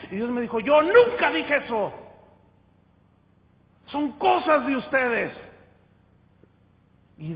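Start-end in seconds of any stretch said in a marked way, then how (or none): 0.6-5.3 voice of God. Acted. God answering the angry pastor.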